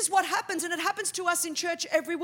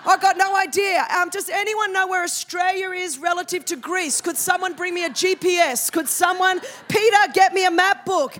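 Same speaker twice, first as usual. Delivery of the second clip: God voiced, flustered; 3 semitones higher, 6 dB louder than usual. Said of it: "I could imagine God's in heaven going".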